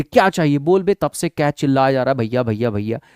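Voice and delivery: slightly angry. Acted. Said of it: "गुस्सा के पूछा थोड़ा सा".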